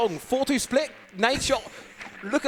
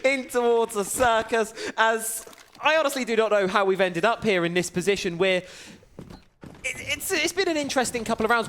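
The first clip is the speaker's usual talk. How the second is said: esports caster. Acted. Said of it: "take over the next minute".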